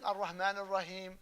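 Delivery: "Ar-Rahman Ar-Rahim" with a plain English h; mispronounced ha. Retold or imitated. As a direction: imitate accented recitation, h for Arabic ha in "Ar-Rahman". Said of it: "They have a major accent".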